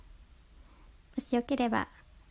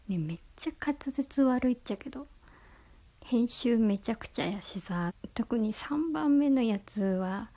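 mock angry tone. Shown as a demonstration. Scolding her own messy past broadcasts in mock anger. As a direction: tell off your own old episodes in half-joking anger. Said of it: "怒り口調で".

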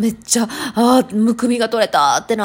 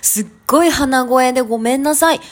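stuffy nose from hay fever; nasal voice. Real, not acted. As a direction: speak through a blocked nose.

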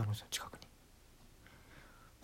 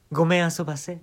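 genteel; 3 dB louder than usual. Retold or imitated. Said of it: "ちょっと上品な感じで".

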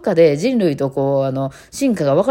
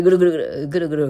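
imitated cat purr; faster than usual. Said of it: "おっさんかっていう".

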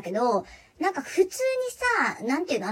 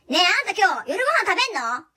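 mother calling out; 6 semitones higher than usual. Retold or imitated.

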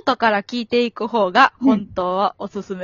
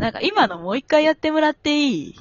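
mock standard Japanese; 6 semitones higher than usual. Mimicking a colleague at rehearsal, mock Tokyo accent. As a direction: mimic polished standard intonation, pitched up. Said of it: "標準語やもんな".

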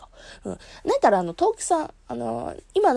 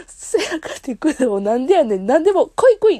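mock Kansai quote; 2 semitones higher, 4 dB louder than usual. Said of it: "っていうこの感じ".

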